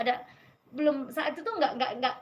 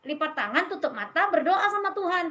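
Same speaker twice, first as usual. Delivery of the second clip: raised, emphatic step-by-step teaching; motherly instruction; 4 semitones higher, 5 dB louder than usual. Retold or imitated. Mother teaching her son the bedtime prayer, motherly instruction. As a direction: spell it out for a small child, voice lifted.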